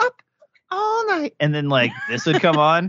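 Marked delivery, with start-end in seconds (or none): 0.0-1.3 put-on very high-pitched girlish promo-style voice. Recalling a late-night TV girl's line, in a high-pitched girl voice. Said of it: "that girl with the high pitched voice would be like".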